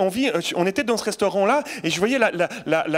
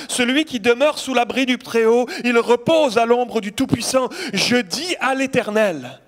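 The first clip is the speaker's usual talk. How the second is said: louder, proclaiming the verse; proclaiming aloud; 3 semitones higher, 4 dB louder, slower than usual. Shown as a demonstration. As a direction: declare it to the congregation. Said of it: "C'est le psaume quatre-vingt-onze". (proclamation à voix forte)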